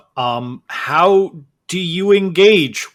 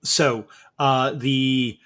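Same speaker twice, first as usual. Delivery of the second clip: usual speaking voice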